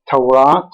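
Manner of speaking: "Tawrat" stressed on the final RAT; final-syllable stress. Shown as a demonstration. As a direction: lean on the last syllable of "Tawrat". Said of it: "stressed on the last syllable".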